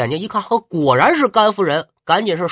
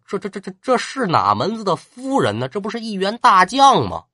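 frightened stammer; 4 semitones higher than usual. Acted. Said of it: "吓得一哆嗦".

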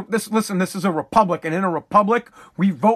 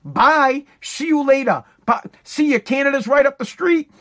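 hammed-up dad ordering the kid out; dad laying down rules; 4 semitones higher than usual. Host voicing a dad evicting his kid, mock stern shout. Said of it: "That's dad style".

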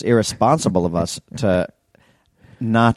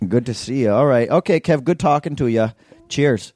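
lifted, chummy mock Canadian; put-on Canadian accent pleasantries; 3 semitones higher than usual. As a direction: sign off like a friendly Canadian, higher pitch. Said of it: "he's got a Canadian accent".

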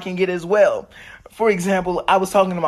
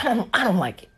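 mom whispering; 5 semitones higher, faster than usual. Retold or imitated. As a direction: whisper her dislike like a timid mom. Mom voiced in retold talk.

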